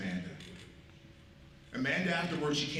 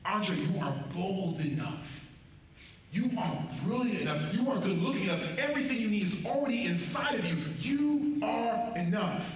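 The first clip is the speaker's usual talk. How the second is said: rising affirmation; 5 semitones higher, 3 dB louder than usual. Acted. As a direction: build each line like a rally cry. Building affirmation to Andre.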